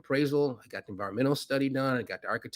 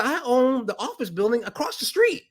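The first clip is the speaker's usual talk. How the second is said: quoting Rajiv; 11 semitones higher, 4 dB louder than usual. Retold or imitated. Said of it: "He said".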